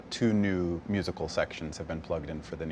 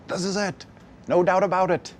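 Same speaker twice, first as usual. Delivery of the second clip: certain; 10 semitones higher, 5 dB louder than usual. Retold or imitated. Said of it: "I was like".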